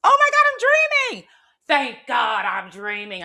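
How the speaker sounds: very high, loud squeal of relief; hammed-up ecstatic squeal; insanely happy. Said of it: "I was insanely, like, happy".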